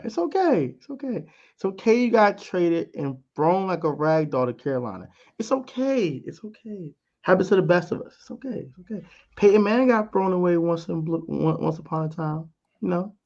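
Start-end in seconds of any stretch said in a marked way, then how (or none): 0.0-9.0 mock consoling. Mock comforting Baker.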